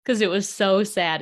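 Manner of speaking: a laugh breaking through, getting emotional; teary laughter. Real, not acted. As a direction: laugh through rising tears.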